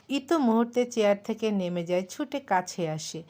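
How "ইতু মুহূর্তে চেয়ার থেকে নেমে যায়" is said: usual speaking voice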